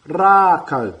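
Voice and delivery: "Rākau" said firmly with long ā; macron demo. Shown as a demonstration. Teacher stressing the macron, firm. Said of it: "word with a macron in, it matters".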